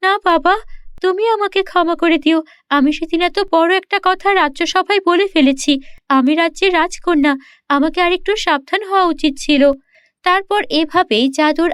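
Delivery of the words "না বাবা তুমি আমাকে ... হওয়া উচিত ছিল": remorseful princess. Acted. Princess answers father.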